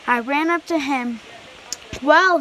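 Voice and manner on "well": a louder, higher conductor; briskly prompting the boy; conductor's voice. A narrator's reading.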